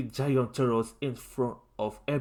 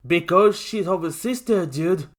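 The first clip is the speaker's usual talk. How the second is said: raised, loud laid-back voice; casual turtle; 5 semitones higher, 6 dB louder than usual. A narrator's reading. Michael explains to Lincoln, casual. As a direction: toss it off like a surfer dude.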